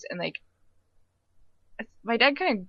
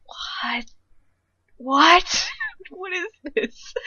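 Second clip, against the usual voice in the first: baffled grandpa; 11 semitones higher, 5 dB louder, much slower than usual. Retold or imitated. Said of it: "my dad's dad was like".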